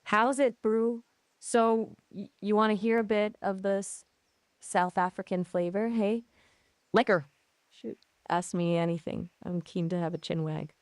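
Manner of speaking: chatty attempt at a South African accent. Shown as a demonstration. AI showing off on request, South African accent. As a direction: have a go at South African-accented small talk. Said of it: "can you try a South African accent now".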